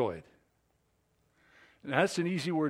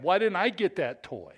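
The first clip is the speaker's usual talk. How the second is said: put-on spoiled child; 6 semitones higher, 4 dB louder than usual. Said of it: "like a spoiled child".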